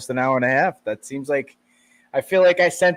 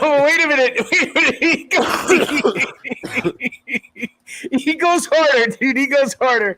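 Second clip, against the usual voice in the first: high, loud words through laughter; helpless high-pitched giggly excitement; laughing hard; 13 semitones higher, 5 dB louder than usual. Real, not acted. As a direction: crack up while talking. Cracking up over played clip.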